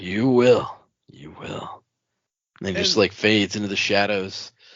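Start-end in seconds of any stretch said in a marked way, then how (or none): 0.0-1.8 eerie, very slow, creepy, drawn-out delivery. Retelling a story, voicing a man's reply to a woman who doesn't know him; mock-creepy. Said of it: "He said it all creepy like that".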